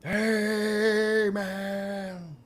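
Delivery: high, long-drawn mock holler; overdone cheer. Shown as a demonstration. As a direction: stretch both words out high, hammed-up. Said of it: "not like".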